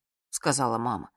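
ordinary delivery

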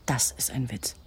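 unvoiced bitter whisper; whispered aside. Woman whispering to her lover about the department, bitter whisper. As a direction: breathe it out dryly under your breath.

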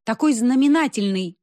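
high-pitched festive speech; ringing ceremonial announcement. A narrator's reading. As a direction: proclaim it grandly to the hall. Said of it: "сказала она звонко".

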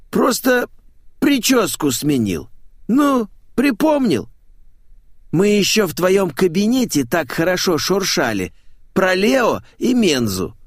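high, drawn-out parrot-man voice; flamboyant showman, chatty. Acted. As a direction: reminisce in a high theatrical singsong.

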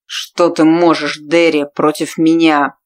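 mock her helplessness; slow scornful challenge; taunting man's voice.

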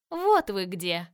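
loud buzzing swarm voice; a million bees speaking at once; buzzing insect swarm chorus. A narrator's reading. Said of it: "прожужжала она голосом миллиона пчёл".

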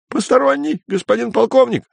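very high frantic report; desperate blurt. Acted. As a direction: blurt it out in panic. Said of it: "с отчаянием в голосе выпалил".

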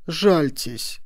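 high cry for pity; pleading exclamation. A narrator's reading. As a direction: implore the official. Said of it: "воскликнули они".

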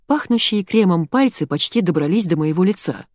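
ordinary delivery, nothing marked

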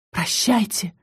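a hushed, fading farewell; soft farewell whisper. A narrator's reading. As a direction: breathe the goodbye out quietly, barely voiced. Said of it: "шепнула я". (тихий шёпот прощания)

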